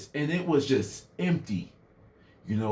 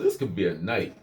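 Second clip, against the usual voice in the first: lower-pitched aside to himself; inner man; 6 semitones lower than usual. Retold or imitated. Inner man weighing up the invitation, low-voiced. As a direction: drop low for the tempting inner voice. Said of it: "that inner man was in me".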